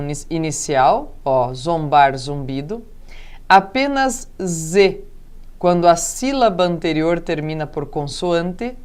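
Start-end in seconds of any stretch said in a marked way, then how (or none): none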